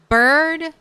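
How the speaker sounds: loud, high announcing call; excited announcing. Real, not acted. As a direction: call it out proudly. Announcing a feast to companion.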